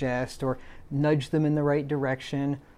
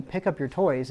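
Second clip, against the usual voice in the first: firm command. Shown as a demonstration. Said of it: "but just saying".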